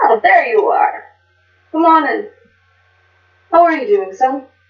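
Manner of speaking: friendly, warm, welcoming fatherly tone. A father working the counter looks up as his son walks in: smiling, welcoming father. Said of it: "and my dad is getting worse off, / and my dad is getting worse off, and so I got to provide for him. So he sent me to this school, And so I'm heading off into the city to check on him and make sure th".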